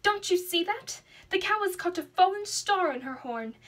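a cry of sudden discovery; excited cry. Acted. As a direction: call out as if spotting the star. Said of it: "and cried".

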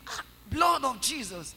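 mild mock yell of fright; retold shout. Woman retelling her cry at a vision, mild mock yell. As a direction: cry out as if startled again. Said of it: "I shouted".

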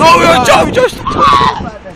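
high yelled call; sharp high shout to a friend. Real, not acted. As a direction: yell at him to stop. Calling out to friend.

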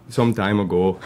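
repeating with a Canadian accent, laughing. Shown as a demonstration. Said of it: "I just dropped in the Canadian accent".

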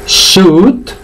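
"Suit" as long "sut", no I; high, rising, stretched "Suit"; silent I drill. Shown as a demonstration. Teacher reviews with learners, "Suit" with silent I. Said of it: "vamos a repasarla".

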